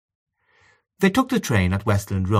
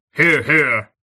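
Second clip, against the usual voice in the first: cheering approval; 5 semitones higher, 6 dB louder than usual. Acted. Villona cheering the speech.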